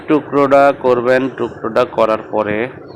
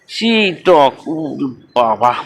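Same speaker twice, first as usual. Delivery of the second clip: wincing exclamation; 3 semitones higher, much slower than usual. Real, not acted. Still wincing at sourness.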